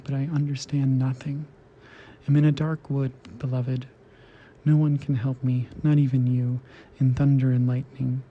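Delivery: measured poem reading with deliberate pauses; poetry reading. Acted. Host reading translated poetry to listeners, measured recital. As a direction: read it out phrase by phrase, evenly. Reads translated poems aloud.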